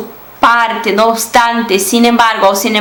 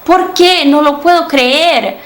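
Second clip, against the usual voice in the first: a question rising into disbelief, then slow; exclamation example; 4 semitones higher, slower than usual. Shown as a demonstration. Teacher demonstrates an example sentence, mildly incredulous. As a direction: act out the shocked disbelief, a little slower. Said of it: "Pode começar como pergunta e terminar como uma exclamação".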